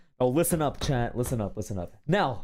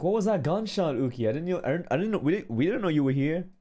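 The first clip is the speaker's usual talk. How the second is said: flustered; 4 semitones higher, faster than usual. Retold or imitated. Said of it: "I was like".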